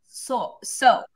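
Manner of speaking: so with a short, pure Russian o; Russian accent. Real, not acted. Teacher slipping while translating a word, Russian accent. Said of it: "said it with a Russian accent".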